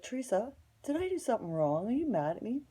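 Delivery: high imitated neighbor voice; high-pitched retold pleading question; mock worried questioning.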